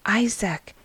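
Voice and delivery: breathy whisper of a friend's name; hushed greeting at the sickbed. Acted. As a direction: lean in and whisper his name. Elias dashes in to sick friend.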